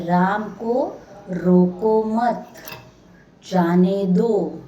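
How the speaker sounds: "राम को रोको मत, जाने दो" read slowly and firmly; slow, deliberate "राम को", "रोको मत", pause, then "जाने दो"; careful demo reading. Shown as a demonstration. Teacher reading the example sentence to pupils, careful and slow. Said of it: "वाक्य ध्यान से पढ़ रही हूँ मैं".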